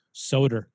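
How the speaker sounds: "soda" ending in an r, like "soder"; mother's regional accent. Retold or imitated. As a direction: say "soda" as mom does, with an r ending. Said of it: "My mom says".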